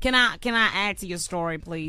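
put-on playful Texas accent; Southern US accent for fun; put-on Southern drawl. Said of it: "Can you do it in your normal voice".

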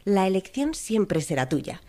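AI assistant voice, slightly synthetic. Shown as a demonstration. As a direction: read it like a chatbot ad. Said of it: "Voy a poner así, voz de inteligencia artificial".

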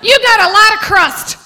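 lightly voiced mother scolding the waiter; a hint of a scolding mother. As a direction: tell off the waiter like an old lady. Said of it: "old-time expression".

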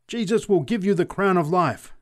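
high-pitched evangelical fervour; exultant scream. A narrator's reading. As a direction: proclaim it in triumph. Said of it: "screamed the preacher exultantly".

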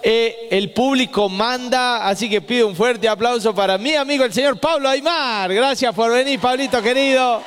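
rally the crowd for the guest; emcee announcement. Acted. Comedian hyping the crowd for Aymar, upbeat.

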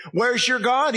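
mock the failed prophets; mocking taunt. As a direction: jeer at them. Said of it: "Mocking the prophets of Baal".

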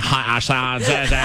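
playing along in Valley Girl vowels; mock California accent. Host greeting new coworker, copying her California accent. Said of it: "I thought you were doing a character voice".

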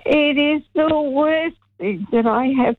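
half-laughing at how bad it was; giggling disbelief. Real, not acted. Caller ranting about awful movie.

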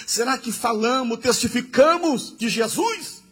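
insistent pulpit questioning; challenging preaching. Real, not acted. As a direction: challenge the congregation, each question climbing.

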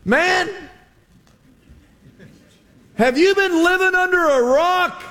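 high, teasing incredulity; mock disbelief. Disciple teasing Jesus, high mock disbelief. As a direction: needle him like he's clueless. Modern paraphrase of Cleopas.

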